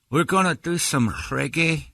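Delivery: high, slow reggae singer voice; band guy voice. Retold or imitated. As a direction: lay on a slow island lilt. Band guy's reply voiced.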